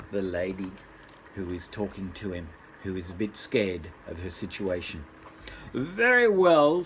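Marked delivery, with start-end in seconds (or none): 5.7-6.8 little man voice. Acted.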